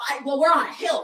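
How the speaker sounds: high, loud whiny excuse. Retold or imitated. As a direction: whine out the excuse. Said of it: "She's like".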